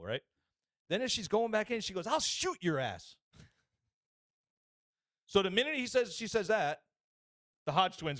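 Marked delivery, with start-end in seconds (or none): 2.1-3.2 slow, drawn-out retold threat; hammed-up threatening yell, stretched out; mock crazy threat. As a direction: imitate an irate driver, pitched up. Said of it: "the lady just gets crazy".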